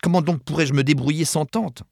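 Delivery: high-pitched, distressed question; fussy woman in dismay; dismayed delicate lady. A narrator's reading. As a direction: voice her helpless dismay up high. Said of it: "exprimer le désarroi de sa nature délicate".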